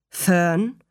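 gentle, understated fatherly address; sanft. A narrator's reading. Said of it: "sagte er sanft". (sanft angesprochen)

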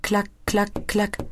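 whisper-light clack sounds; soft clacking. Acted. A quiet noise from the window, soft clacking. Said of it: "erklingt ein leises Geräusch".

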